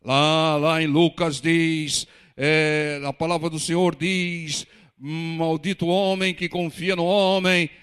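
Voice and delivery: loud, drawn-out mock preaching; hammed-up scripture declamation, stretching the words; religious preacher. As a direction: imitate a pompous religious preacher. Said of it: "Não precisa pregar como religioso".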